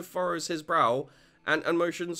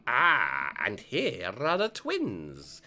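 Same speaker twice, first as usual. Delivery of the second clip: lower, slow dad voice; a proud father introducing his kids; Joseph voice; 5 semitones lower, much slower than usual. Acted.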